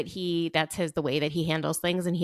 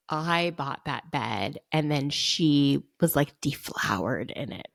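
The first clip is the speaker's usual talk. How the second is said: mock aggrieved man; 3 semitones lower, slower than usual.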